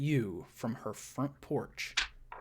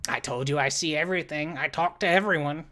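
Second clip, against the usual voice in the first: brisk boast; 3 semitones higher, 5 dB louder, faster than usual. Acted. NPC boasts, questioning.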